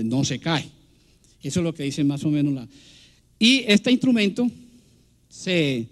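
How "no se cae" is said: deep male reply. Retold or imitated. Lecturer repeating the male guacharaca's answer, lowered voice. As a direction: lower imitation of the male bird. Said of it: "el macho le responde".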